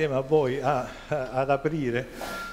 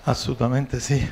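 out of breath; 6 dB louder than usual. Real, not acted. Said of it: "Scusate il fiatone".

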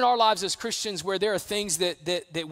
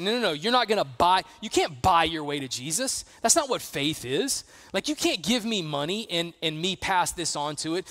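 fired-up Peter. Retold or imitated. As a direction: shove the offer away with heat. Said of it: "Peter is fired up about it".

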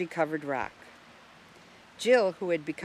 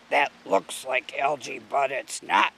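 Russell; 3 semitones lower than usual. A narrator's reading. Russell corrects Jill.

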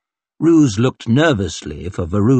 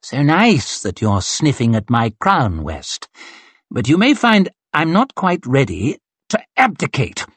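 arrogant swordsman. Acted. Glocta taunting West in duel.

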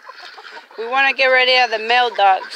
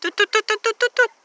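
high toot toot bird call; calling chickens; 9 semitones higher than usual. Real, not acted. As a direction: call the birds over, high and bright. Mom calls birds again.

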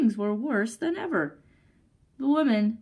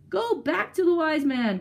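high, raised command to her husband; exasperated cry; 7 semitones higher, 3 dB louder than usual. A narrator's reading. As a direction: order it in exasperation. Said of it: "cried the woman".

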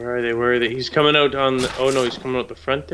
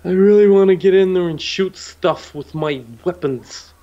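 eager, louder and higher; can't wait to start shooting; excited; 5 semitones higher, 7 dB louder than usual. Real, not acted. Eager to fight.

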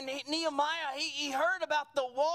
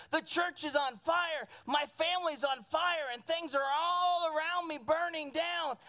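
impassioned alarm; 3 semitones higher than usual. Acted. Acts alarm cry of modern Nehemiahs.

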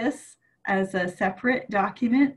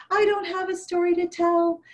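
grandma voice; 8 semitones higher than usual. Acted. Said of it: "And Grandma said".

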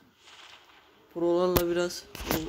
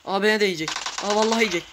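louder, higher panic; panicked; 3 semitones higher, 4 dB louder, much faster than usual. Real, not acted. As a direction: alarm rising as he's hunted. Panicking as enemy attacks. (telaşlı ve panik içinde)

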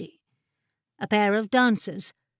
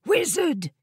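higher, more urgent call; insistent hiss; 6 semitones higher than usual. A narrator's reading. Jessamine calling the sleeping wizard, insistently hissing. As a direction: hiss sharply to rouse a sleeper. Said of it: "Jessamine hissed".

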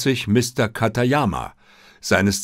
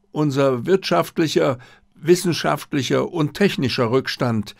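a lightly raised, courteous diplomat voice; polite Japanese diplomat; 5 semitones higher than usual. Acted. Diplomat Katayama answering Holmes's questions, lightly raised and courteous.

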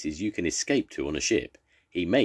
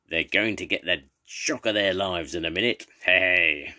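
lightly voiced villain, gleeful and sly; a hint of a gloating pirate rallying his men; scheming pirate villain. Jake urging his crew up the sides, a hint of gloating.

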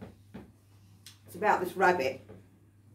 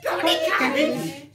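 much higher squeaky rabbit asking; cheeky rabbit voice; 7 semitones higher, 6 dB louder than usual. Acted. Rabbit begging the butcher for cabbage, high cheeky squeak. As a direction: pipe it up high like a cheeky bunny. Rabbit's chorus line again.

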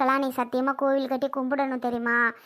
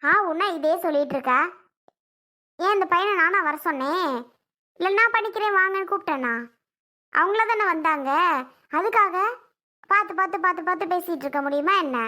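angry retort; 2 semitones higher than usual. Acted. Daughter snaps back at scolding mother.

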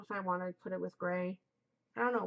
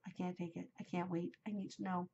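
low, hushed, drained muttering; soft and low after an outburst; overwhelmed; 3 semitones lower, 9 dB quieter, faster than usual. Real, not acted. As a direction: drop right down, as if worn out by suspense. Drained after outburst over finale.

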